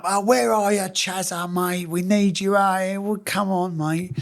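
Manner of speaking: lightly acted cajoling; imitated pleading. Friends phoning him from the stag do, imitated coaxing.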